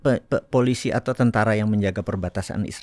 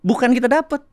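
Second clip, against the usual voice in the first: high, loud excited telling; 12 semitones higher, 4 dB louder than usual. Real, not acted. Explaining the no-interest bank to a friend, high and excited. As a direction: tell it in disbelief.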